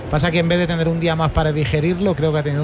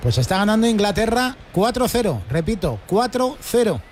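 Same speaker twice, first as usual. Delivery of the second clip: score announcement; 5 semitones higher than usual. Real, not acted. Commentator announces and repeats the score.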